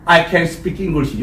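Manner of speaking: words drawn out slowly; slow model sentence. Shown as a demonstration. Teacher repeats the sentence slowly for the class. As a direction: say it slowly for copying. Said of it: "나는 영어를 말할 가능성이 있다".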